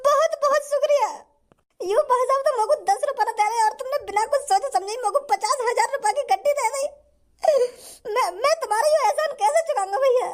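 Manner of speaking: high, choked-up gratitude near tears; hammed-up crying beggar thanking a rich man; tearful thanks. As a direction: thank him through mock sobs. Beggar overwhelmed by huge gift.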